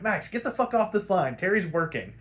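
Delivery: mild gruff dismissal; curt brush-off. Retold or imitated. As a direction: brush her off the line. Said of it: "Bruce is like".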